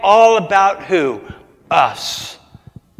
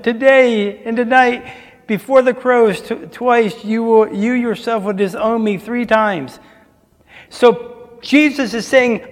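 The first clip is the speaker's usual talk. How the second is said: raised and higher, firm pronouncement; preacher voicing Jesus warning Peter, raised; solemn warning; 4 semitones higher than usual. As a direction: declare the warning with weight.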